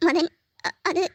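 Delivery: choked up, stumbling over the words; tearful, halting. Acted. Meera to Madhan, halting and tearful. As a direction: voice breaking as she tries to begin.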